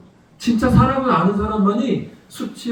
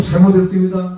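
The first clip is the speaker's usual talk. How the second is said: louder, begging "잘못했습니다" with full force; pleading apology; 6 dB louder than usual. Retold or imitated. Father begging forgiveness from the furious driver, loud. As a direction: plead "잘못했습니다" hard, head bowed. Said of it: "계속".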